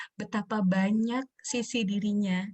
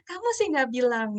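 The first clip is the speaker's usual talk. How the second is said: light mock parental reproach, higher pitch; omelan sok tahu; 4 semitones higher than usual. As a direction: lightly play the know-it-all parent blaming a child. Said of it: "merasa jadi maha guru". (omelan ringan ala maha guru)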